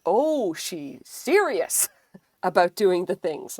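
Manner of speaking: slow, laughing wonder; amused aside. Retold or imitated. Staff amazed she is serious, laughing. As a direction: marvel at her through a laugh. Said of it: "and they were like".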